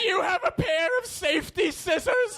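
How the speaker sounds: high, mock-alarmed victim shout; yelling. Victim guessing ever lamer weapons, high acted yell. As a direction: yell the question in exaggerated high shock. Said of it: "I'm yelling into the mic".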